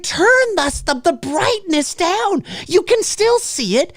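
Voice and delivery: ordinary talk, nothing marked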